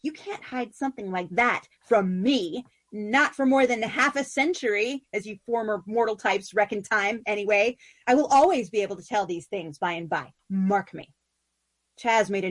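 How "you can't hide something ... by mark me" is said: a bright, wistful spider queen longing for the moon; Sisera's voice. Acted. Sisera teasing her wife.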